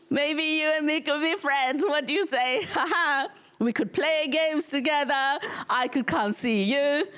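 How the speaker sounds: friendly British government. Acted. British government courting Kenyans as friends, mock-chummy. Acted British overture after losing.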